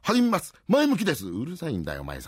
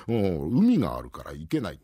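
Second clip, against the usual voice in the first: put-on creaky wise old man; 3 semitones lower than usual. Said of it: "白いひげなんざ長く生やしましてね".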